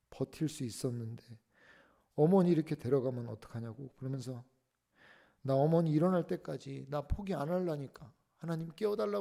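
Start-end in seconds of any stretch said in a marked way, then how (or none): 5.4-9.2 tearful plea. Retold or imitated. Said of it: "하면서 막 울면서".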